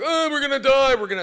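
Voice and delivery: high, loud panicky wail; mock panic as the captain who loses it; panicked. Captain panicking at a sinking ship, high loud wail. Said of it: "I won't be the one to be like".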